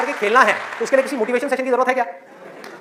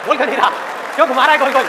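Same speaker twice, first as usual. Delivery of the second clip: impatient listeners; 3 semitones higher, 4 dB louder, faster than usual. Acted. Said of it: "सबके अंदर से आवाज आ रही".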